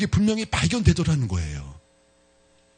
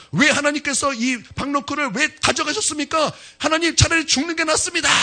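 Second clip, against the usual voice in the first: Jonah's angry complaint; 9 semitones higher than usual. Acted. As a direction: plead hotly that death is better. (하나님께 높고 크게 따지는 요나)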